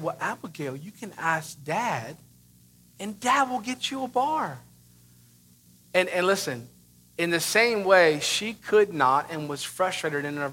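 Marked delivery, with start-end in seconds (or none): 0.0-4.6 placating parent. Retold or imitated. Dad to his frustrated daughter, gently placating.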